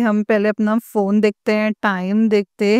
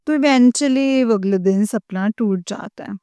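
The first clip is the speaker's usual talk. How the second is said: normal talking voice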